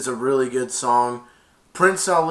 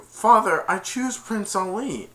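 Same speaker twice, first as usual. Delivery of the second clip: Jasmine voice; 9 semitones higher, 3 dB louder than usual. Retold or imitated.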